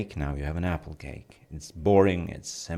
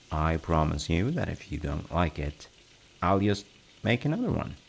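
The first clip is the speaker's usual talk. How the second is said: more reassuring. Shown as a demonstration. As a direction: coax them like a worried friend. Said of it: "okay, I can be more reassuring".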